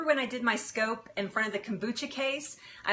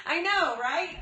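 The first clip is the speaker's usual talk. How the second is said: laughing; 10 semitones higher, 5 dB louder, slower than usual. Real, not acted. Laughing through tears at comment.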